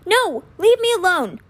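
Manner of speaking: high, loud frightened cry; terrified plea. Acted. Boy begs his dead twin to leave, terrified. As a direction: push the ghost away in panic.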